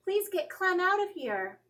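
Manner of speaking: high, loud pleading shout; yelled plea. A narrator's reading. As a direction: beg mom to take the dog away. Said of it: "yelled Miranda".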